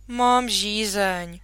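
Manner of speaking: put-on slow, whiny little-girl plea; pleading. Sick Minka begging father for a drink, slow plea. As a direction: drag it out, begging. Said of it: "zaškemrala".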